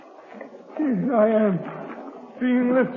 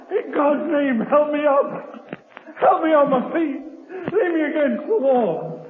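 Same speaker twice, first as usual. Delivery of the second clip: raised, higher pleading cry for help; desperate plea; 5 semitones higher than usual. Acted. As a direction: beg for help with the last of your strength. Dying man begs to be lifted.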